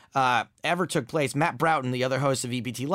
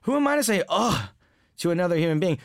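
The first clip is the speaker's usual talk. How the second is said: incredulous self-questioning; 4 semitones higher than usual. Retold or imitated. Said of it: "And then I'm like".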